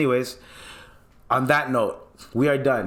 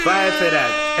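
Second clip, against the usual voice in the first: louder, normal pitch, cut short; louder punchy repeat; 4 semitones higher, 5 dB louder, slower than usual. Pretend. Host repeating the rallying cry louder and firmer. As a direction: bark it back as a firm slogan.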